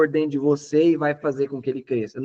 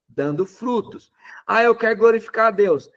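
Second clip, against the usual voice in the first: ordinary talk, nothing marked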